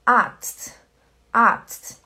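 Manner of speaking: Arzt with a long open a. Shown as a demonstration. Teacher repeating Arzt with a long a. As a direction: stretch the a in Arzt. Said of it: "É como se fosse um A longo".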